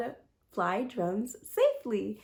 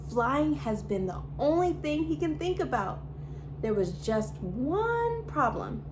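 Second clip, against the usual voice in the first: put-on lively read-aloud storytelling for kids; storybook reading. A narrator's reading. YouTube host reading a picture book to children, bright storytelling. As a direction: read the story to little viewers, expressive and clear.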